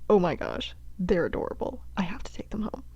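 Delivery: hushed, smitten whisper; gushing over cuteness. Acted. Hunter god gushes over elves.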